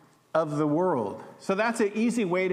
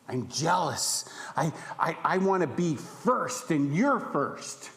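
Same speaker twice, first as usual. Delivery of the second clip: voice of bitter envy; 2 semitones lower than usual. Acted. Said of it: "That's what bitter envy says".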